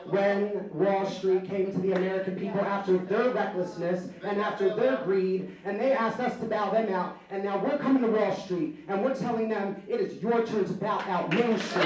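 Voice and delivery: forceful, indignant rally speech; a touch of anger. Real, not acted. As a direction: drive it home with controlled anger. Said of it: "Sorry if I sound a little angry".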